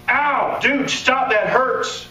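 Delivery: pained yelp. Retold or imitated. Man in pain yelps at touch.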